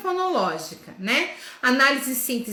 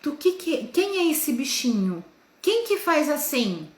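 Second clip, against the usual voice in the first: put-on asking the children; 3 semitones higher than usual. Shown as a demonstration. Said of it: "você fala assim".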